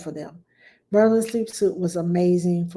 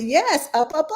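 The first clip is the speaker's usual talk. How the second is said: put-on excited praise to baby; 6 semitones higher than usual. Praising baby's first word.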